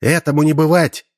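high, ringing cry of defiance; defiant exclamation. A narrator's reading. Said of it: "воскликнула Красная Косынка".

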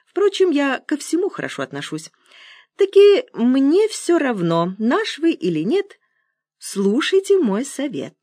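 put-on high, slowing old man's pronouncement. A narrator's reading. Old man prepares caller for his advice, high voice. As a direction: pitch it high and draw out the key words.

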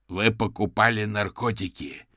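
loud, slow, booming roar; roaring accusation. Acted. Detective suddenly roars at the suspect, booming and slow. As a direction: slam the accusation down on him. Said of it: "внезапно взревел Бернард".

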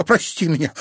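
put-on girl pleading with her hurt boyfriend; apologetic. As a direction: beg forgiveness.

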